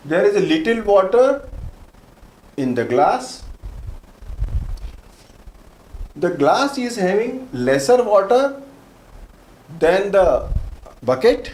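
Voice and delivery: slow dictation. Shown as a demonstration. Teacher dictates example sentences slowly.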